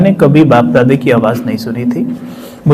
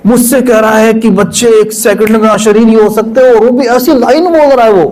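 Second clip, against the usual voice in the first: overwhelmed excitement; 4 semitones higher than usual. Real, not acted. Overwhelmed recalling hearing God.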